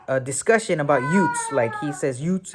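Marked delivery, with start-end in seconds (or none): 1.1-1.5 "youths" said as "yoots", with a T for the TH; accented "youths". Retold or imitated. Quoting a film's courtroom exchange, accented "youths". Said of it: "he just has that accent". 2.2-2.5 "Youths" said as "yoots", ending in a plain T; accented "youths". Retold or imitated. Quoting Joe Pesci's film line, accented "Youths". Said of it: "he just has that accent".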